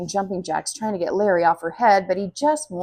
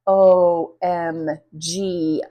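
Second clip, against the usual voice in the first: drawn-out shock; 7 dB louder, much slower than usual. Acted. Narrator reacts in shock.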